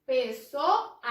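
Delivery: "Pessoa" with the last "a" set apart; final syllable separated. Shown as a demonstration. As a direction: say "Pessoa" in pieces, isolating the final "a". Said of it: "A sílaba final é a". ("Pessoa" destacando o "a" final)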